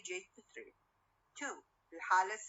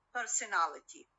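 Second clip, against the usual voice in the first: "personality" with the main stress on the AL; stress on -ality. Shown as a demonstration. Teacher showing how -ality takes the stress, stress on AL in "personality". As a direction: lean on AL in "personality". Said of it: "it receives the primary stress".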